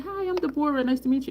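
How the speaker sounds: high, sociable introduction voice; high meet-and-greet voice; mock polite greeting. Acts own polite greeting.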